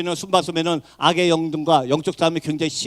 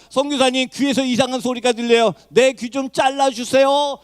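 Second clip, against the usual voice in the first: higher, mildly frantic plea for help; retold distressed cry; 5 semitones higher than usual. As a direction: imitate someone crying out to the missionary. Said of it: "막 소리를 지르기 시작합니다". (괴로워 외치는 흉내)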